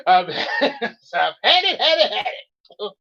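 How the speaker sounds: laughing. Real, not acted. Laughing through the rant.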